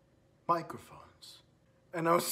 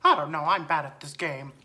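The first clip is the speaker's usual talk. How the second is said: cartoon mouse voice, swooping down; Mickey Mouse; 5 semitones lower than usual. Mouse prankster answering a teammate asking for tips, mascot voice. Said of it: "All right, Mickey Mouse".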